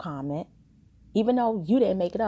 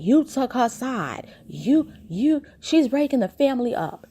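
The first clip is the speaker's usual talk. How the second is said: higher, hammed-up upset mother; mock upset; 6 semitones higher than usual. Imitating the mom accusing her daughter, mild mock anger. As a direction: play the mom wilding out, lightly. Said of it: "Jackie's upset, wilding out".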